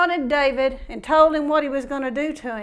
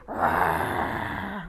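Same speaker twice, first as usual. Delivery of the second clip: low growl; 5 dB quieter than usual. Retold or imitated. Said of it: "Or is he".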